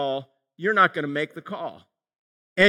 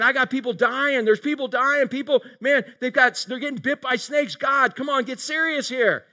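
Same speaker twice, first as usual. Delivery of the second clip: higher, mock-exasperated plea to God; a hint of frantic Moses, raised pitch; Moses pleading; 4 semitones higher than usual. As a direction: Moses begging God to get serious.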